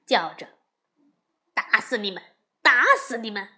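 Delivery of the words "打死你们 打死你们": angry yell rising to a loud shout; furious shout. Acted. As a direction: start firm, then blast the second one louder. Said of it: "悟空不由大怒". (怒吼，第二声更响)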